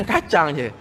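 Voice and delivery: a little laugh before the words; chuckling repeat. Real, not acted. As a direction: laugh at how little it was. Laughing repeat of the meagre food.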